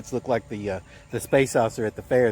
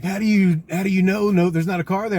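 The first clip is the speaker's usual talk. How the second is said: high, anxious mock panic; panicky boss; 8 semitones higher, 4 dB louder than usual. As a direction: imitate a nervous passenger squealing. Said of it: "he was freaking out".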